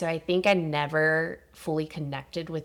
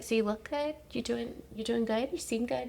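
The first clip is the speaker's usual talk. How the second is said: higher, sing-song doctor check-in; mock chirpy doctor; 8 semitones higher, 3 dB quieter than usual. Imitating her doctor's cheery questions, high. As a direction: play the overly cheerful doctor. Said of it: "she was like".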